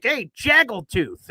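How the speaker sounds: slow taunting heckler. Retold or imitated. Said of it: "He's like".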